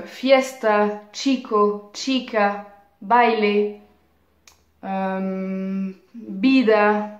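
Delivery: "fiesta, chico, chica, baile, vida", each stressed on the next-to-last syllable; penultimate stress. Shown as a demonstration. Teacher gives students familiar llanas, next-to-last syllable stressed in "fiesta" to "vida". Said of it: "l'avant-dernière syllabe".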